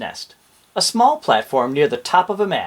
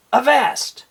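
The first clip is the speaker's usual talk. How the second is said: high, loud pirate hail; pirate call; 9 semitones higher, 4 dB louder than usual. Shown as a demonstration. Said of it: "A pirate's way of saying".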